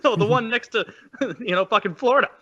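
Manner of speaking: high, giggling through the words; half-laughed mock reply; laughing friend. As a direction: laugh while you correct them. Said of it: "And they're like".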